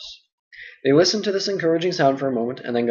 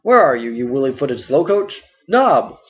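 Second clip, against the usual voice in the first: louder, calling out for the slow servant; mock scolding call; 4 dB louder, slower than usual. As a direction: hail the lazy boy across the house. Butterbur calls Nob.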